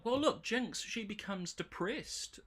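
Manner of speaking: high-pitched imitation of commenters; mock objector. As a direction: put on a high voice to mimic objectors. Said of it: "people have come back to me and gone".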